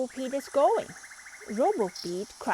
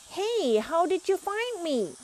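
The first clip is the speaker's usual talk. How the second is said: higher, surprised question; 9 semitones higher, 4 dB louder than usual. A narrator's reading. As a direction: ask in astonishment. Pete caught, surprised.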